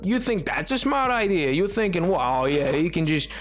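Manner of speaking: mock defensive. Mock-defensive reply to Killer.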